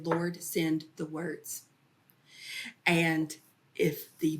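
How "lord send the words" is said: 1 quiet prayer. Retold or imitated. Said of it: "I would say".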